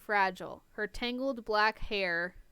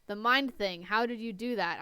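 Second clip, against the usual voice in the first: irritated; 4 dB louder than usual. Acted. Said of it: "I asked, irritated".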